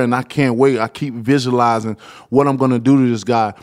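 talking around Invisalign trays; words round a mouthpiece; mouth full. Real, not acted. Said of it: "I can barely talk with this stuff in my mouth".

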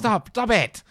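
high, loud laughing protest. Real, not acted. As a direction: squeal it out, laughing.

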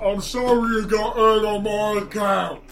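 a sorry bard; apologetic bard voice. Acted. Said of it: "I'm like".

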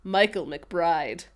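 slow, mildly put-on Irish accent; bad Irish accent. Host retelling Michael naming his old alias, lightly mock Irish accent. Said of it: "quietly, in a bad Irish accent".

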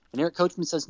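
ordinary delivery

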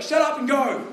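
mock cross dad; retold angry order. Parents sending their son to his room, loud and cross. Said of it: "We're like".

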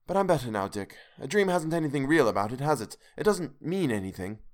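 put-on high, shaken young wife still trembling; a scared wife calming herself; frightened wife. Hester voiced in story.

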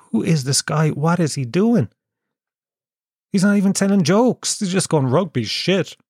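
mock incredulous crowd, rising high; mocking disgusted punter. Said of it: "like, going".

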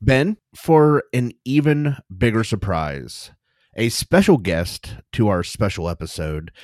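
grand slow introduction, rising to the reveal; announcer voice. Acted. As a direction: build it up like a game show host. Game-show style guest announcement.

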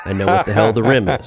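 fast, laughing self-correction. Real, not acted. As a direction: laugh at your own slip. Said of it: "I just did that there".

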